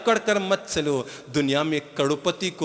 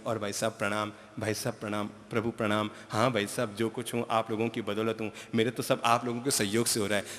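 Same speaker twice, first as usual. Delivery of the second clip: humble greeting; 6 semitones lower, 9 dB quieter than usual. Retold or imitated. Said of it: "वहीं हम विनम्रता से चलेंगे".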